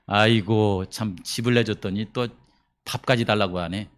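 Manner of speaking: low, quiet grumbling about the guest; begrudging, half under the breath; annoyed grumble. Retold or imitated. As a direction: mutter it like a put-upon host. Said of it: "귀찮은 듯이".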